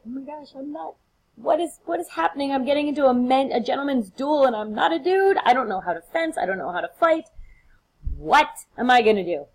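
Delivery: high, frantic, hammed-up panic; mock panic. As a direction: play a scared girl who can't fight. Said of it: "freaking out".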